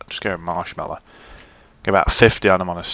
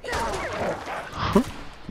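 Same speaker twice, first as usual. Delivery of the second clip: short, high breath of a laugh; quiet, voiceless burst of laughter; 6 dB quieter than usual. Real, not acted. Player reacting to the wolf, short laugh.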